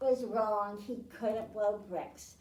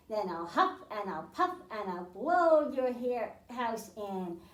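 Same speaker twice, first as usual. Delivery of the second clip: wolf threat; 3 semitones lower, 4 dB louder than usual. Acted.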